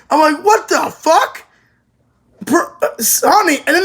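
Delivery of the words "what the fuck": shocked reaction. Retold or imitated. Reacting in shock to anime scene.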